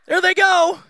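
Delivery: playful mock-tender parent voice; mock doting parent. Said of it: "and you're like".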